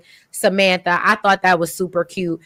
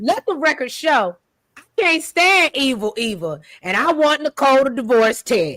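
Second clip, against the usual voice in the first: cartoon princess; 4 semitones higher than usual. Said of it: "I'ma just give you what I think it sound like".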